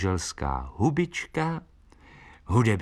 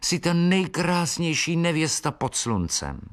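comforting; 8 semitones higher than usual. Acted. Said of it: "utěšoval vlaštovčák Filip".

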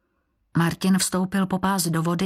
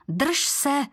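pleading; 7 semitones higher than usual. A narrator's reading. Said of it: "prosila Libuše".

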